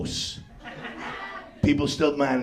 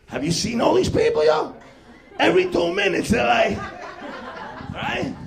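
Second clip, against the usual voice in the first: mock high voice; 12 semitones higher than usual. Mocking selfie-taking tourists.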